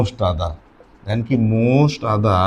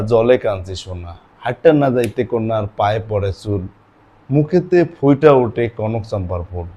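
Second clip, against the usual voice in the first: slow, sing-song verse recital; poem recital; 3 semitones lower, slower than usual. Acted. Teacher breaks into a folk poem, slow recital.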